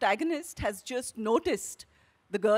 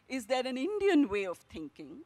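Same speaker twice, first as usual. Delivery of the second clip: "Indian" pushed up and forward, rising tune; stress on INDIAN. Shown as a demonstration. Author demonstrating the actors' exercise, stress on "Indian". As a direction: land the weight on "Indian". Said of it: "a commonplace line with emphasis on different words".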